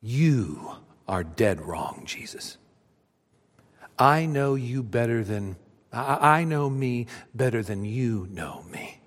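lightly voiced Peter brushing it off; emphatic denial. Peter telling Jesus he is dead wrong. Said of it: "he says emphatically".

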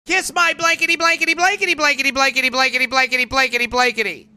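rapid mock rant, a hint of shrew; mock screaming wife. Mocking wives berating husbands, fast hammed-up rant. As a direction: rattle it off fast like a scolding wife. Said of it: "yelling at you, screaming at you".

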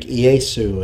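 "Iesu" said the Greek way, ee-AY-soo; Greek pronunciation. Shown as a demonstration. Preacher showing a name's Greek form, "Iesu" pronounced the Greek way. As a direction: say "Iesu" as in Greek, opening on a vowel. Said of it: "pronounced in the Greek".

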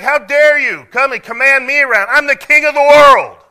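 outraged royal shout, high and very loud; Pharaoh. Acted. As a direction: bellow like an offended king. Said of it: "No, Pharaoh, he's like".

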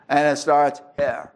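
southern accent. Real, not acted. Preacher tells congregation where sin starts, southern accent. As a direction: land on "here" with a southern accent. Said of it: "I'll reset that southern accent".

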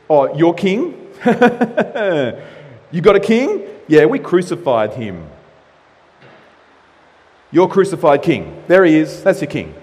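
a mild taunting sneer with a laugh; lightly voiced Pilate jeering at them; mocking taunt. Pilate taunting the Jews about their crucified king, mildly mocking. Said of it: "It's a mock".

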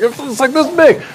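a playful take on his daughter's excited voice; mock daughter. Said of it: "my daughter's like".

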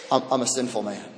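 hushed confession. Retold or imitated.

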